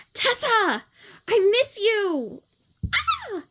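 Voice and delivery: put-on very high, slow, gushing girl voice; Gemma's voice. Shown as a demonstration. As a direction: squeal it like a clingy little sister. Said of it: "I do Gemma's, which is different".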